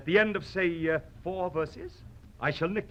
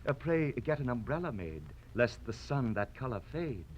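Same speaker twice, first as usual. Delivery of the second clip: softer, sweetly concerned; tender; 5 semitones lower, 7 dB quieter than usual. Acted. Swordsman mocks the nose in a tender, soft voice. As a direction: murmur it with gentle care. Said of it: "or tender?".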